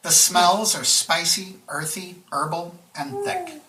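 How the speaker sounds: deliberate descriptive narration, pausing between items; game master's scene setting. A narrator's reading. Game master describing the bus interior to the players, measured narration. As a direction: lay out each detail for the listeners.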